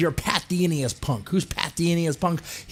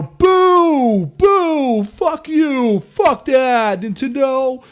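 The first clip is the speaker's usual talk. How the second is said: much higher, louder jeering shout; mock crowd booing; 10 semitones higher, 6 dB louder, much slower than usual. Angry fans booing the mobile Mario, high jeering shout. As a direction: boo like an outraged fan.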